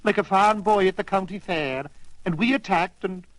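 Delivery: lightly voiced Irish setter, proud. Irish setter proudly tells how they attacked the pirate. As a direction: brag about the rescue with a lilt.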